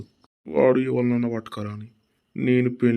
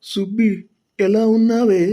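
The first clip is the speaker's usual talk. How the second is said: higher, louder delighted call; excited greeting; 9 semitones higher, 6 dB louder than usual. Acted. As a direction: call out to Subbi, thrilled to see her. Grandpa greets his lover Subbi. (సుబ్బిని చూసి ఉత్సాహంగా పిలవడం)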